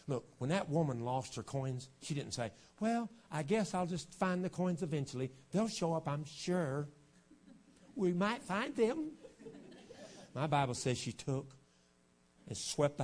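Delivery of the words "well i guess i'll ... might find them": mock unconcerned searcher. Preacher voicing the woman who lost coins, mock unconcern. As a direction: play at not caring whether it turns up. Mocking a half-hearted searcher.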